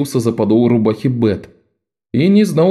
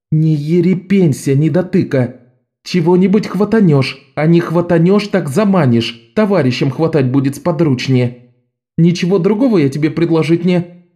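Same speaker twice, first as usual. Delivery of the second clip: put-on higher, brisk girl's coaxing; Bet urging; 6 semitones higher than usual. A narrator's reading. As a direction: push the scared boy on.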